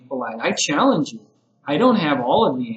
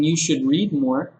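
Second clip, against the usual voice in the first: bossy. Shown as a demonstration. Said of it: "You sound like my mother".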